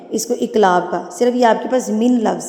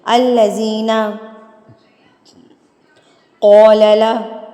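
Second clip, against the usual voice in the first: slow reading; 4 dB louder, much slower than usual. Shown as a demonstration. Teacher slows down on a long word. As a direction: read it very slowly, word by word. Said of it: "سلو پڑھتی ہوں".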